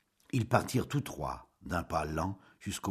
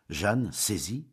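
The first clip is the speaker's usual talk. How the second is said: ordinary delivery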